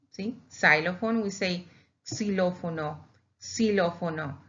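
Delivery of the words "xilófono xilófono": "xilófono" said the Spanish way, see-LO-fo-no; Spanish pronunciation. Shown as a demonstration. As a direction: say "xilófono" with an s sound and stress on LO. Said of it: "Because we pronounce it like that".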